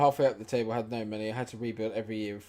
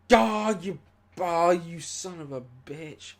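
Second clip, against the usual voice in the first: louder, higher, slow exasperated curse; frustrated curse; 8 semitones higher, 8 dB louder, slower than usual. Real, not acted. Cursing his striker's miss, loud and exasperated.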